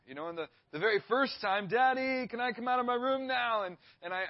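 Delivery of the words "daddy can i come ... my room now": imitated child yelling. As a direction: mimic a kid hollering through the door. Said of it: "he would start yelling at me".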